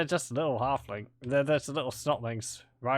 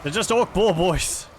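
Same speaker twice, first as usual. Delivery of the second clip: loud, raised-pitch protest; exasperated urging; 6 semitones higher, 9 dB louder than usual. Real, not acted. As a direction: call out to struggling troops in disbelief. Urging on his game troops.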